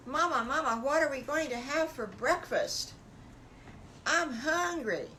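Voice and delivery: high, loud little piglet begging for breakfast; eager piglet calling Mama; excited piglet. Acted. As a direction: squeal it like a hungry little pig. Piglet voiced in bedtime story.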